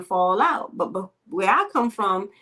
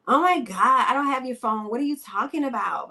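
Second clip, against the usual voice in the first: hammed-up outrage, playing innocent; mock indignant denial; 4 semitones higher than usual. Thief girl denying the phone to the friend, mock indignant denial. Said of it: "they always show out".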